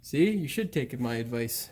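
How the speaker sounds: put-on lightly Italian-accented advice; hint of an Italian accent slipping in; accidental Italian accent. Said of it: "That sounded weird, like an Italian accent".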